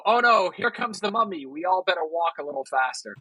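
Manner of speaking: lightly voiced, unbothered panic; old movie character.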